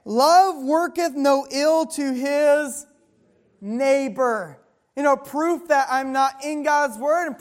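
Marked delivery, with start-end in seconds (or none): 0.1-4.6 drawn-out, weighty reading of the verse; solemn preacher's scripture read; slow scripture reading. Acted. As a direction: lay each word down slowly like holy writ. Reads scripture slowly.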